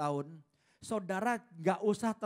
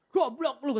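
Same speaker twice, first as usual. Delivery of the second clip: lightly voiced parrot; 7 semitones higher, 7 dB louder, slower than usual. Parrot insults owner.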